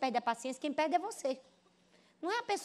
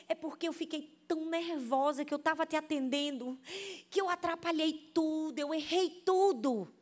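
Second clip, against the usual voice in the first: higher, mock-tearful confession; near tears; 4 semitones higher than usual. Flustered waitress explaining her mistakes to Joyce, acted near tears. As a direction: whine out the excuse as if about to cry, drawing out the end. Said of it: "já quase chorando".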